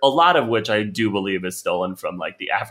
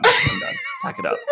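way higher, squeaky falsetto; squealed sign-off. Real, not acted. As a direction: shriek it out as a comic exit. Ending the rant.

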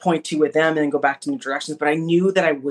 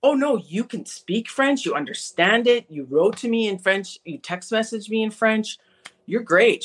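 higher-pitched encouraging insistence; retold reassurance; 6 semitones higher than usual. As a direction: reassure a nervous student, voice lifted. Examiner reassuring her, retold.

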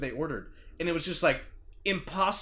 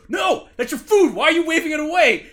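higher, louder disbelieving outburst; incredulous yell; 10 semitones higher, 8 dB louder than usual. Retold or imitated. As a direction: shout at him in disbelief, a bit fast. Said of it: "I'm like".

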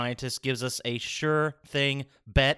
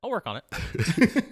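higher, slow silly voice; mock character voice; 6 semitones higher, slower than usual. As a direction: stretch it out in a put-on voice. Failed voice attempt, carries on playing.

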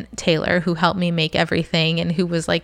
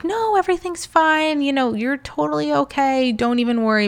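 mock reassuring mom; 8 semitones higher than usual. Mom and mother-in-law reassuring her.

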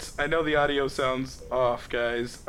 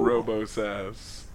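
robot voice; 5 semitones lower, 4 dB quieter, much slower than usual. Pretend. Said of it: "More of a higher pitch".

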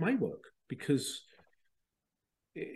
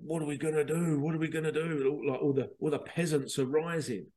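lightly voiced fretting monarch, steady raised pitch; mock-worried king; 2 semitones higher than usual. Cartoon king fearing a peasant uprising, mock worry.

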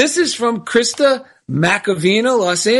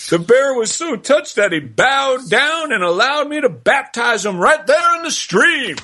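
big blustery cartoon rooster; Foghorn Leghorn voice. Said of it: "Unity minister John Strickland said".

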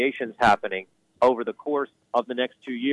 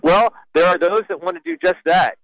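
laughing; 9 semitones higher than usual. Real, not acted. Laughs at Hunter Biden remark.

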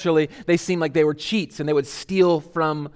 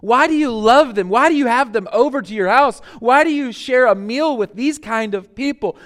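higher-pitched mock complaint, question after question; lightly acted indignant protest, pitched up; imitated complaining; 4 semitones higher than usual. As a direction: complain like disapproving churchgoers. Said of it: "They complained about it".

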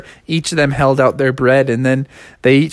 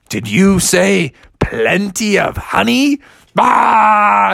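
excited Bubby; 5 semitones higher, slower than usual. Acted. Bubby excited about honey.

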